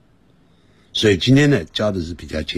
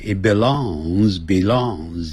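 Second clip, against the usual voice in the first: slow and careful; much slower than usual. Shown as a demonstration. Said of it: "你可以念慢一点".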